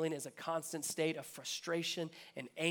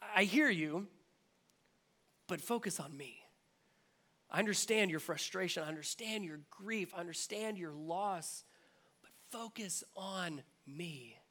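gentle Jesus. Acted. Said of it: "he's like".

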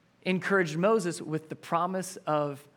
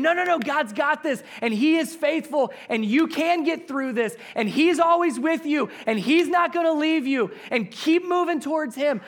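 reassuring others; 11 semitones higher, 8 dB louder than usual. Retold or imitated. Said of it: "You're going to other people saying".

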